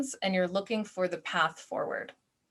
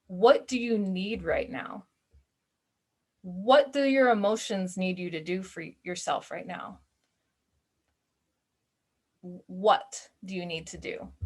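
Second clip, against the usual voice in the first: gentle what question. Shown as a demonstration. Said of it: "we're gonna ask what".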